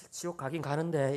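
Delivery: low, soft, hesitant admission; imitated sheepish evangelist. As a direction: reluctantly concede it, mock-sheepish. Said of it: "머리를 끄적이면서". (머쓱하게 얼버무리는 흉내)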